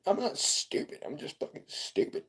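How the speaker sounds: whispered under his breath, fast and high; muttered whisper. Pretend. Streamer whispering to himself about being called stupid. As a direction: mutter it to yourself, barely voiced.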